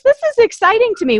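real thrill bursting out; rushing, high and loud with excitement; excited. Real, not acted. Host thrilled by business family.

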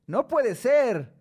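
No puede ser estirado, muy lento y más alto; imitando una queja lenta. Retold or imitated. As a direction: imita la queja alargando cada sílaba. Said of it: "como diría Delfín hasta el fin". (queja lenta y exagerada)

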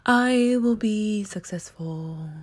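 slow, a little fuller affirmation; put-on affirmation voice. Shown as a demonstration. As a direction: repeat the mantra slowly with conviction. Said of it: "why I put on that voice".

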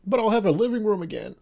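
high, fast, loud burst of joy; excited. Real, not acted. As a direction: shout it out with glee. Excited about new flat.

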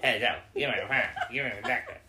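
lightly voiced bad Doctor; hammed-up little puppet take on the Doctor; puppet-like Doctor impression. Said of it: "You sound like that little puppet".

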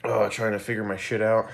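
winded after a run; catching breath between words. Real, not acted. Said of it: "if I seem a little bit out of breath".

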